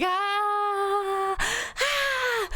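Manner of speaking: very high, held mock baby screams; imitated baby scream. Mom imitating her baby screaming in the car, high mock screams. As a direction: squeal out a baby's scream at normal volume. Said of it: "He'd be screaming".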